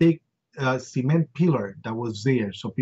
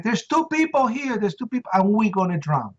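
much higher, frightened answer; panicked reply; 7 semitones higher than usual. Retold or imitated. Trapped men calling back that they'll drown, high frightened. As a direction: voice the trapped men's fear.

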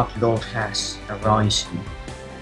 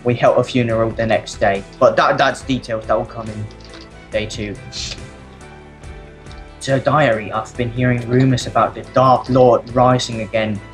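lightly voiced blacksmith's wife writing her diary; diary reading voice. Reads diary as Miss Blacksmith.

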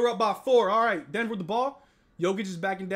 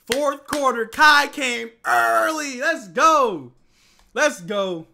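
louder, higher, slow drawn-out shout; hyped call; 4 semitones higher, 9 dB louder, much slower than usual. Real, not acted. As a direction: hype the fourth quarter. Hyped call after Kyrie's run.

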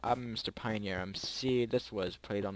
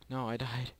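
whispering; 2 semitones higher than usual. Real, not acted. Whispered after dying.

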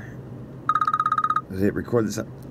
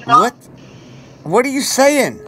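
high squeaky mouse voice, louder; mimicking squeaky caller; 11 semitones higher, 5 dB louder than usual.

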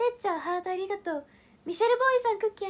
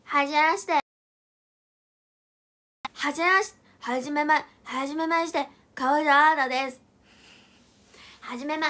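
loud announcer-style intro; 6 dB louder than usual. Retold or imitated. Imitating friend's announcer intro.

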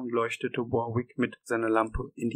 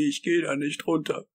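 high, tearful protest; acted sob, pitch raised; sobbing refusal; 4 semitones higher, 4 dB louder than usual. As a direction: wail it like a frightened coward. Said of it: "schluchzte Wisconski".

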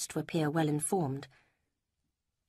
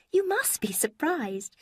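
a higher, lighter voice for Lucy; Lucy, higher voiced; 11 semitones higher, 3 dB louder, slower than usual. A narrator's reading. Lucy quizzing Eleanor about Mrs Ferrars, higher voice. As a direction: lift the pitch for the young woman Lucy.

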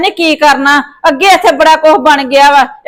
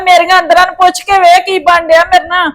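tearful, inconsolable protest; lament, refusing all comfort; distraught wailing; 3 semitones higher than usual. Acted. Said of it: "ਮਾਤਾ ਚੁੱਪ ਵੀ ਕਰ ਹੁਣ". (ਰੋਂਦਿਆਂ ਵਿਲਕਦੇ ਹੋਏ)

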